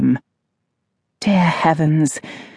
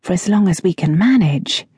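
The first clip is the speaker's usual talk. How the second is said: musing. Acted. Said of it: "she mused".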